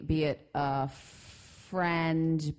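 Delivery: slow, knowing stress on "friend"; air quotes friend. Real, not acted. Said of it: "Was that an air quotes friend?".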